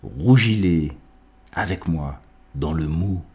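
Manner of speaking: declaimed verse with lifted calls and pauses; poetic invocation. Acted. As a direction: recite it as an address to a god, phrase by phrase. Lit une invocation de Virgile. (invocation poétique déclamée, phrasé posé)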